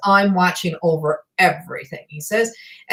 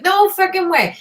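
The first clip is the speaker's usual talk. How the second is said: much higher mock grumpy outburst; grumpy disbelief; 12 semitones higher, 4 dB louder than usual. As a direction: play the grump scoffing loud and high. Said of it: "And he's like".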